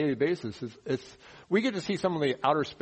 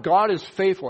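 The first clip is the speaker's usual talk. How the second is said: proclaiming loudly; 5 semitones higher, 7 dB louder than usual. Pretend. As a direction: ring it out loud and high, like a rainbow shouting. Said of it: "So it's shouting out".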